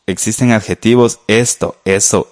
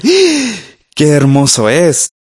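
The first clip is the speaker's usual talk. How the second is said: a high swooping "Ah!" of admiration, then gushing; delighted exclamation; 5 semitones higher, slower than usual. Retold or imitated. Someone admiring a beautiful thing, high delighted gasp. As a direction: gasp at something lovely and praise it. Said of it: "uno dice".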